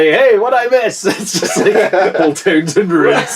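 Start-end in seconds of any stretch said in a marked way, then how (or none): 0.0-1.1 clueless dad. Retold or imitated. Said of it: "It's pretty much like".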